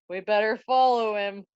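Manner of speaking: sudden shouted call to follow; mock shout. Guards rushing after Hamlet, hammed-up shout. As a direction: burst out with it, hammed-up. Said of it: "pull a Three Stooges act".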